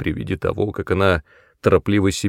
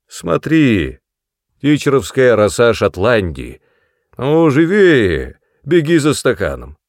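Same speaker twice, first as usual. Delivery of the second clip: coaxing, louder and higher; tempting offer; 4 semitones higher, 6 dB louder than usual. A narrator's reading. Son tempting his old mother with whisky, coaxing. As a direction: dangle the bottle before her.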